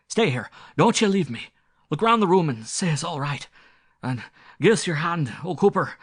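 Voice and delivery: loud, high, pleading squire voice; frightened squire. Acted. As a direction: beg the butler to stay, shaken to the core. Terrified squire clings to butler.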